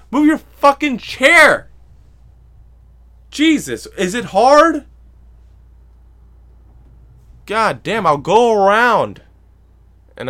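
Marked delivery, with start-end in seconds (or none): 0.1-9.2 high, very loud yell with drawn-out endings; exasperated shout. Retold or imitated. Moviegoer to the man stuck in his recliner, exasperated shouting. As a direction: holler in disbelief at his incompetence. Acting out yelling at grumpy man.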